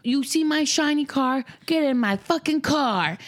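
high, slow mimicry; child's video quote. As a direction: imitate the kid's showy line, drawn out. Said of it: "Benny said on a video".

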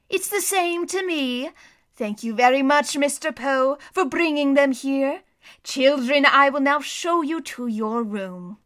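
a hint of a greedy schemer hiding his anger; sly villain voice. A narrator's reading. Count Olaf voiced in story.

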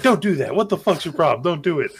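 retelling the director's annoyed outburst at his actress, mock irritated; imitated annoyance. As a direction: snap at her like the fed-up director.

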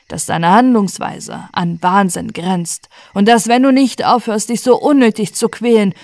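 tiefer, eindringlich mahnend; alter Diener. Acted. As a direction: rede wie ein besorgter alter Diener. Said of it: "eines älteren Mannes". (alter Diener mahnt seinen Herrn, eindringlich)

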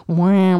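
single loud-ish siren wail; imitated siren. Asking viewers what this noise is called, imitated siren. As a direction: wail like an alarm. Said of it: "what's the word for that".

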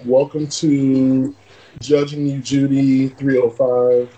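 slow, grand title reading; slow announcer. Pretend. Mock course title announcement.

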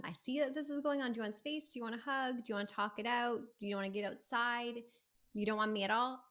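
soft, gentle mama voice; lightly voiced caring mama; mama language. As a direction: offer comfort softly, like a mother to a child. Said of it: "like, mama language here too".

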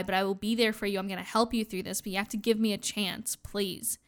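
low, quiet retold appeal; retold gentle plea. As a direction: plead softly, imitating a sincere promise. Retelling Stefan's last-minute plea to Caroline.

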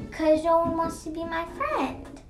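lonely alien. Acted.

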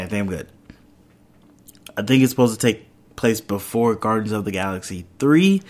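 ordinary talk, nothing marked

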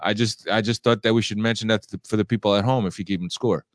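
raspy voice from a cold; scratchy, congested sinus voice; hoarse voice. Real, not acted. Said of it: "that's why my voice, uh, sounds like, uh, this".

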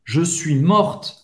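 "morte" ending in a clear T sound; pronounced final T. Shown as a demonstration. Teacher repeating the form for a woman, "morte" with sounded T. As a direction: finish "morte" on an audible T. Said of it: "você vai falar o T".

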